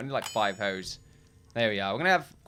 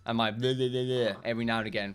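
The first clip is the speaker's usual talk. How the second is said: bleh noises; 2 semitones lower than usual. Shown as a demonstration. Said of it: "my constant mumbling".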